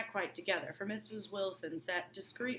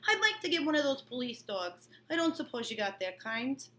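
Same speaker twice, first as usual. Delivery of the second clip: put-on low-class New York accent; 5 semitones higher, 4 dB louder than usual. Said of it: "Excuse my horrible, like, low-class New York accent".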